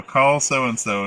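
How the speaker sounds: slow, loud, over-clear voice command. Retold or imitated. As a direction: spell it out for the phone. Speaking a command to his phone.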